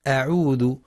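أعوذ opened with a thick, dark a; heavy hamza, mistaken. Shown as a demonstration. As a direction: darken the first vowel of أعوذ. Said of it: "فيقرأ بتفخيم همزة".

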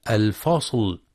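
الفصل with a wrongly dark, thick l; faulty heavy reading of الفصل; mistaken heavy lam. Shown as a demonstration. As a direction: thicken the final l of الفصل after the sad. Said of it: "والحذر من تفخيمها لمجاورتها الصاد".

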